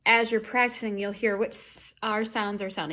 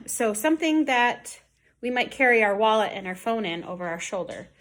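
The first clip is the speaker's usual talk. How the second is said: ordinary talk, nothing marked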